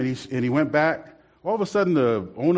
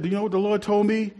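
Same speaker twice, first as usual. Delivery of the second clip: imitating comedian; 6 semitones higher than usual. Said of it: "he said".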